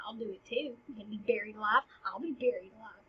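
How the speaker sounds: hushed, half-whispered dare; petulant one-upping. Acted. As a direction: mutter it as a sulky mock dare. Hamlet's petulant one-upping of Laertes.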